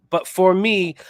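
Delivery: loud, cocky brag to Jimmy; hyped boasting. Real, not acted. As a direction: brag like you're on fire. Gloating about his betting streak.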